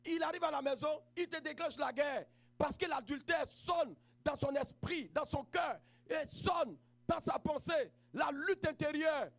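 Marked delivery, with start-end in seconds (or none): 2.6-9.3 slow emphatic preaching. Acted. Sermon on adultery.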